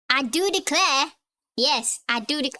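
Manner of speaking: badly faked Southern accent; bad Texan accent. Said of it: "Terrible Texan accent".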